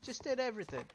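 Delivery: high, loud, quick protest; indignant disbelief. Real, not acted. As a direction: fire it back in loud disbelief. Objects to the game's refusal.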